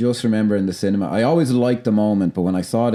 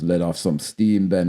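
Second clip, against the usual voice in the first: slow, lower, deadpan film line; flat delivery; 5 semitones lower, slower than usual. Retold or imitated. Podcaster showing co-host how the star delivered it, slow and flat. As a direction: deliver the one-liner flatly, unhurried and low. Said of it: "It's very kinda flat".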